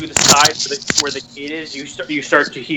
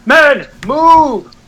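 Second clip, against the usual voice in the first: higher, loud urgent command; shouted order; 11 semitones higher, 7 dB louder than usual. Acted. Captain ordering his men to move, shouted. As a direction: get the men moving. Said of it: "you hear the voice go".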